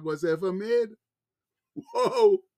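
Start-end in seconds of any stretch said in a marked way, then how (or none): 1.7-2.4 a sudden, much higher, amazed "Whoa!". Real, not acted. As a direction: burst out in wonder at the thought. Preacher marvels at Christ's work.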